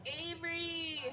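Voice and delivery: high, loud happy shout; delighted cry. Real, not acted. Player cheers loudly for her favourite character Avery. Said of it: "I love Avery".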